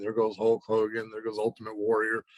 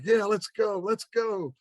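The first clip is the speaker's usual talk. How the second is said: high-pitched, eager imitation of a friend; imitated eagerness; 10 semitones higher, slower than usual. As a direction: act out a buddy raring to go. Imitating eager best friend's reply.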